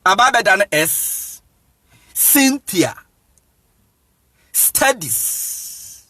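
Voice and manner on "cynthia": "Cynthia" higher, split as sin - tia; demonstrated S sound. Shown as a demonstration. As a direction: sound out "Cynthia" starting with a clear s. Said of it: "you pronounce it as S".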